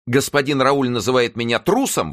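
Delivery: high, loud lackey's protest; indignant exclamation. A narrator's reading. Lackey accused of cowardice by his master, indignant cry. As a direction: cry out in wounded outrage. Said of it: "воскликнул Оливен".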